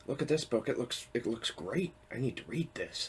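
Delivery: mock eager book-shopper delight; imitated excitement. Reader spotting a tempting book in the store, excited. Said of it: "and I'm like".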